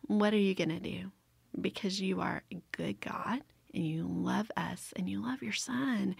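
soft, hushed talk to God; retold prayer. Wife praying about uncomfortable circumstances, softly retold prayer. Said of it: "to be able to say".

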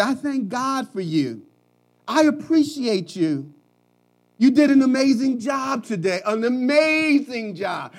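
rising, emphatic praise, slowing down; encouraging praise. Retold or imitated. Husband praising his spouse, building to an emphatic shout. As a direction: lift them up with each word. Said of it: "You can say".

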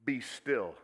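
calm command. Acted. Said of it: "and he said".

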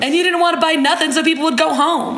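a hint of an exasperated reality-show guy; mock-annoyed, barely put on; Alonzo, lightly acted. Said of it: "I will be playing the role of Alonzo".

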